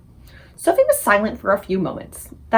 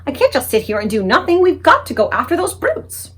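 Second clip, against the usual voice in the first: crying out; 5 semitones higher, 4 dB louder than usual. Acted. Sophie cries out to the BFG, loud and urgent. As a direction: demand action, voice rising. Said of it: "she stood up and cried out".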